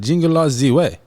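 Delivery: lightly put-on Austrian accent; Arnold Schwarzenegger. Repeating the title to his friend in a rough Austrian accent. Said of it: "Is that an Arnold impersonation?".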